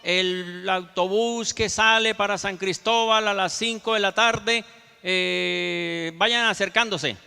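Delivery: imitating a drawn-out bus terminal announcement; slow, stretched-out call over a microphone; terminal announcer. Terminal announcer calls passengers to the five o'clock bus, drawn-out announcement. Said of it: "escucho que dicen por micrófono".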